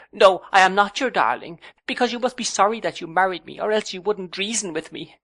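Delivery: high, loud, then rushing protest; hurt young wife. A narrator's reading. Young wife refuses to be called darling, high and hurt. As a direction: fling it back at him, hurt.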